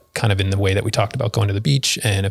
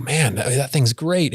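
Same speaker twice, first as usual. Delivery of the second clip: sweet; 4 semitones higher, slower than usual. Retold or imitated. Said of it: "really, really sweet to me".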